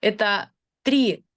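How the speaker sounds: ordinary talk, nothing marked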